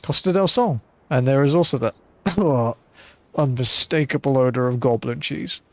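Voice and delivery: a hint of a shrewd old merchant, knowing; measured and sly, a touch theatrical; lightly voiced blind merchant. Streamer voicing blind merchant to the adventurer, lightly sly.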